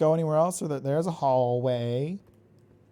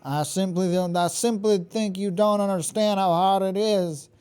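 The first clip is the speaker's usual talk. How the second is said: Southern Mother mode; 4 semitones higher than usual. Pretend. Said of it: "Don't mind my weird accent".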